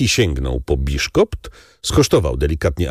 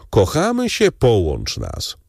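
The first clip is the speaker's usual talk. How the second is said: quoted lovers; 4 semitones higher than usual. Retold or imitated. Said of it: "powiedzieć mu".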